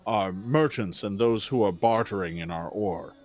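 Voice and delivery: a hint of a formal, wary orc at the gate; orc guard. Orc guard answers the visiting party, lightly voiced and measured. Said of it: "the orc looks at you and says".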